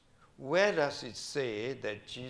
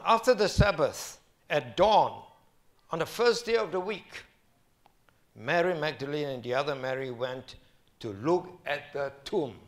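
scripture reading; 2 semitones higher, 6 dB louder than usual. Acted. Reading scripture aloud in sermon.

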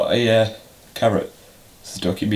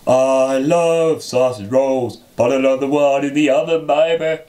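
slow, careful, word by word; slow dictation; 3 semitones higher than usual. Shown as a demonstration. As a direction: spell it out slowly for a child. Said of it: "say the words".

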